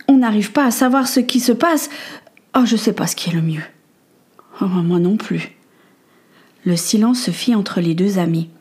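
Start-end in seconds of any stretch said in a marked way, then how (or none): 0.1-5.6 hushed whisper in the dark. Acted. Two friends in the ship's hold, whispering nervously.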